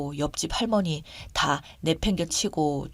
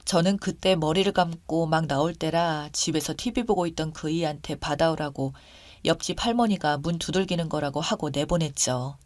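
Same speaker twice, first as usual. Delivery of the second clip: ordinary delivery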